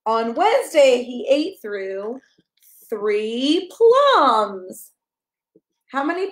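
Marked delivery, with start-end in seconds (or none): 0.1-4.9 bright, sing-song picture book reading; reading to a child. Acted. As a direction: read it like bedtime story time for a toddler.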